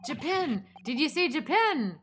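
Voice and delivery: put-on Minnesotan, taken aback; Minnesotan accent. Governor reacts to the word Japan, startled Minnesotan accent. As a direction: exclaim it in a mock Minnesotan accent. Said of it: "I'll just make him Minnesotan".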